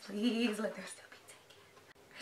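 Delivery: slow, soft plea fading away; hushed begging. Real, not acted. Fan next in line for tickets, slow hushed plea. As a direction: beg slowly under your breath.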